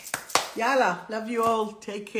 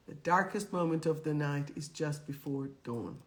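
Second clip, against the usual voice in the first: softer repeat; 4 semitones lower than usual. Shown as a demonstration. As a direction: lower and softer, darkest still leaned on. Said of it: "remember this one".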